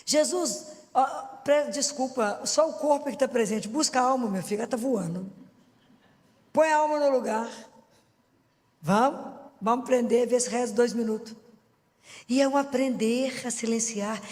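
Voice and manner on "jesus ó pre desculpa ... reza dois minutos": model prayer. Shown as a demonstration. Preacher models a prayer for her listeners, pleading. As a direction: talk to Jesus like asking for help. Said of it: "uma forma de começar é falar assim com o Senhor".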